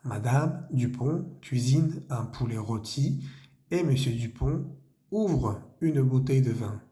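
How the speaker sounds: careful French reading of the sentence; slow French reading. Shown as a demonstration. Teacher rereads the French sentence to the students. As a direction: reread it slowly for the class. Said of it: "Volvamos a leer la frase".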